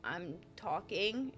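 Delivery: slow, put-on British accent; imitated British accent, drawn out. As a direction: answer innocently in a British accent. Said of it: "in a British accent to my husband".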